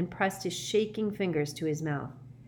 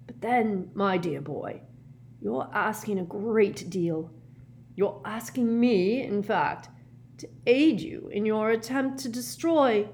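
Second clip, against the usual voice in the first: high, slow, halting protest; hesitant old professor; 5 semitones higher than usual. A narrator's reading. Professor balks at helping Harry, hesitant. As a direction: draw it out nervously in pieces. Frightened Slughorn resisting request.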